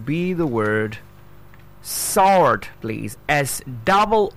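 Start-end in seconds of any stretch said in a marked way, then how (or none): 1.8-2.7 "sword" with silent w, as sord; correct pronunciation. Shown as a demonstration. Teacher introducing one more word, careful pronunciation. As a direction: say "sword" emphatically, higher, no w. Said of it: "it's sword".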